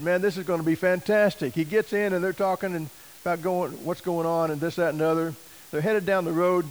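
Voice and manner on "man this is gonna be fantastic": excited. Retold or imitated. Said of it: "And Nestor is excited".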